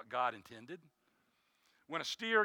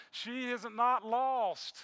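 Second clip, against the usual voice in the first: grieving husband's words; 5 semitones higher than usual. Retold or imitated. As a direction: let each word land, steady through grief. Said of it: "He says".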